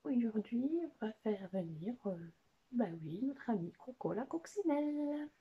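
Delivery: lightly voiced puppet, rising to a high announcement; Watson. Watson tells the children who is coming, lilting puppet voice. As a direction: answer as the companion puppet, building to the guest's name. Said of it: "c'est qui aujourd'hui?".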